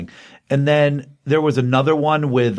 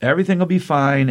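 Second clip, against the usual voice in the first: lightly voiced Wilma, higher and soothing; Wilma reassuring; 5 semitones higher, faster than usual. Wife consoling her laid-off husband, lightly voiced Wilma. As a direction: comfort him, lightly played. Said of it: "Wilma's like".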